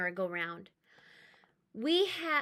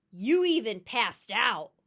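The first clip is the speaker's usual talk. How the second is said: chirpy; 8 dB louder than usual. Acted. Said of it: "my brother chirped".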